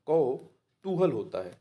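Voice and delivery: कौतूहल said slowly and carefully; slow dictation. Shown as a demonstration. Teacher stressing the right word for exam aspirants, slowly. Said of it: "आपका जो C option है".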